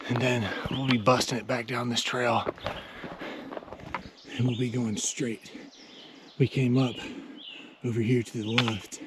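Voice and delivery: hushed voice so campers sleep; quiet. Real, not acted. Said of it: "we try to be quiet".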